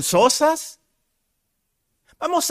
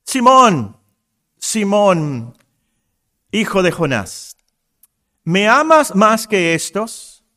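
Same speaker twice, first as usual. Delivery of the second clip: dramatic scripture reading. Acted. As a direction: read the dialogue dramatically, calling out Simón. Reads John 21 aloud.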